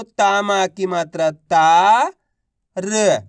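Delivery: syllable by syllable, very slow; slow sounding out. Shown as a demonstration. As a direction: spell it out slowly for kids. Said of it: "teacher sounding out syllables". (धीमे-धीमे अक्षर जोड़ते हुए)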